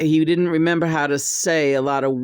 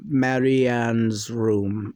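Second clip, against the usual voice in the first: John's channeled voice; 5 semitones lower, slower than usual. Retold or imitated. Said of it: "I think you just said Mary".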